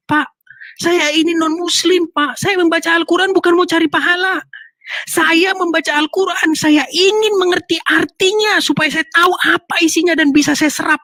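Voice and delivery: high-pitched, emphatic pleading; impassioned protest. Retold or imitated. Impassioned imagined protest to the ustadz.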